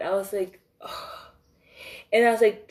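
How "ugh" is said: exasperated ugh. Retold or imitated. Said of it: "I was so mad".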